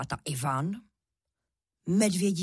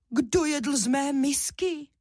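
higher, lighter bear voice; mama bear's shout; 8 semitones higher than usual. A narrator's reading. Mama bear finding her bowl used, high indignant shout. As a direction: cry out in a high mama bear voice, less mighty. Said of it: "zakřičela ... přece jen méně hlasitě".

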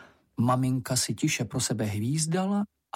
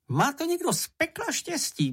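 bitter. A narrator's reading. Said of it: "poznamenal Čenich trpce".

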